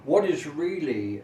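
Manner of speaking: normal talking voice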